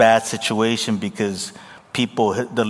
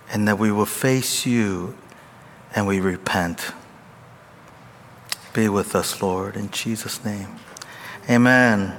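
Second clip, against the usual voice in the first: hushed, earnest prayer voice; 2 semitones lower than usual. Acted. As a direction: reverent pastoral prayer. Opening prayer.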